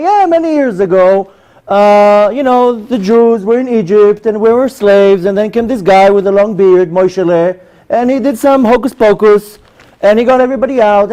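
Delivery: lightly mocked childhood storyteller; dismissive storytelling. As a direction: imitate grown-ups telling it as just a story. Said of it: "they told me that as a, as a story".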